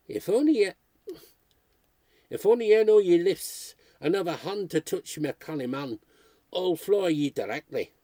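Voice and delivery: loud broad Tyneside accent, easing back to a hint of Geordie by the end; broad Geordie shout. Fishwife shielding Wesley from the mob, shouting in a Geordie accent. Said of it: "shouted in broad Tyneside".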